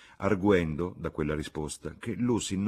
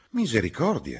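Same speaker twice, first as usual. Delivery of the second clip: higher, louder cry of protest; exasperated exclamation; 7 semitones higher, 6 dB louder than usual. A narrator's reading. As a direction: exclaim as if pushed past patience. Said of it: "esclamò la signora Honeychurch".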